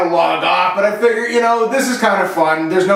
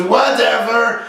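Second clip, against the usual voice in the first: put-on French Canadian accent; 2 semitones higher, slower than usual. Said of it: "he was French, he was from Quebec".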